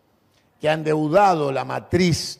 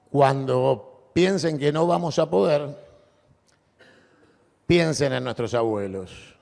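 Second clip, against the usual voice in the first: booming balcony speech. Real, not acted. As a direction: build toward the final cheer. Climactic rallying close of speech. (discurso de balcón atronador)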